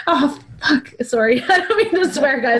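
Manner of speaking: high, teary laugh through the words; emotional laughing swear. Real, not acted. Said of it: "I'm, like, literally getting so emotional".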